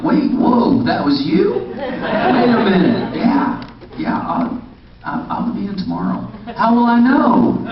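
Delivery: high, breathy mock astonishment; mock shock at a pretty actress; surprised. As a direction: play stunned and flustered. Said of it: "I'm like".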